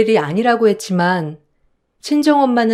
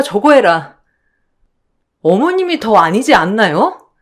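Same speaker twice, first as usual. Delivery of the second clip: rising, indignant pushback, lightly voiced; standing her ground, point by point; defiant daughter-in-law; 3 semitones higher than usual. Daughter-in-law arguing back at her mother-in-law, indignant.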